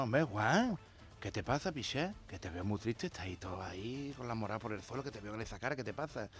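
soft concerned murmur; quiet friend voice. Acted. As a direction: ask gently, barely above a murmur. Friend asks sad Juan, quietly. (amigo preguntando en voz baja)

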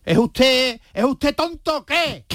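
a lightly voiced grumpy soldier brushing him off; annoyed soldier. Soldier on guard duty snapping at the general, lightly acted. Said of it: "le gritó el soldado".

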